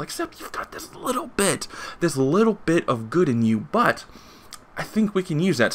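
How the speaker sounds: alien creatures' voice. Retold or imitated. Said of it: "And they find him and they say".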